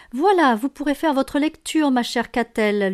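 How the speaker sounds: gracefully lilting, starting high then settling; gracious. A narrator's reading. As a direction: offer it with polite grace. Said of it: "lui dit Léna avec grâce". (avec grâce, d'un ton léger)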